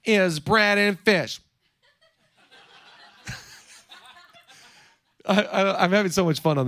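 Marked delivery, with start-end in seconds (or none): 0.0-1.4 slow complaining whine; slow mock whine to God; whining. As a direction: drag it out like a sulking kid. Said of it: "you ever complain to God".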